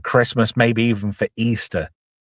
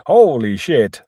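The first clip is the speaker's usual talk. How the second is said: lightly voiced stunned reaction; put-on character voice; slower than usual. George seeing Callahan at the door, lightly voiced amazement. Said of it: "Sorry, I did a voice".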